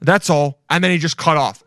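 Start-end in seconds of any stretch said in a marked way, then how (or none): 0.0-0.6 mock earnest video statement with key words punched; video announcer imitation. Imitating a man revealing a secret in a video, mock earnest. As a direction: imitate a man making a measured public announcement. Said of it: "some guy in a video that was like".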